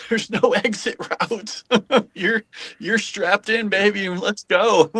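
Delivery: laughing at the thrill of being strapped in. Real, not acted. Ballplayer joking about fighter jet thrills, laughing.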